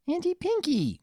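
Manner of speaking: put-on high, delighted children's cry; excited exclamation. A narrator's reading. The twins greet their aunt, exclaiming happily. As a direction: shout her name with glee. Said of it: "both of them exclaimed".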